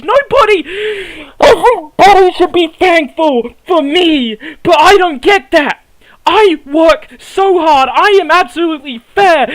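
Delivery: choked-up, crying while he complains; tearful rant. Acted. A hurt wrestler pleads to the crowd, voice cracking. Wrestler's emotional promo about van.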